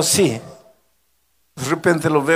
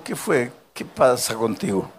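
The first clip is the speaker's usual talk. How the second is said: gentle concern; 5 semitones lower, 7 dB quieter than usual. Retold or imitated. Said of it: "Le digo".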